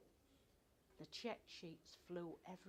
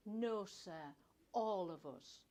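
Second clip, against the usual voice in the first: defiant; 7 dB louder, slower than usual. A narrator's reading. Defiant reply to boss.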